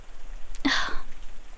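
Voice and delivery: soft, breathy sigh; dismissive sigh. Acted. Done talking about other people, dismissive sigh. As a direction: breathe out to drop the subject. Dropping the subject.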